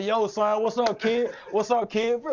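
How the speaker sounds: high, lively imitation of New York slang greetings; playful imitation New York accent; mock New York talk. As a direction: lightly put on a New York rapper's way of talking. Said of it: "we thought we were two famous rappers".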